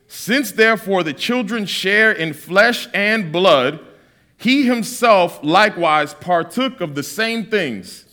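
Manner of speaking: slow, weighty reading of scripture; measured scripture reading. Acted. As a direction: read the verse slowly and solemnly. Reads scripture slowly.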